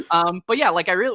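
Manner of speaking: normal talking voice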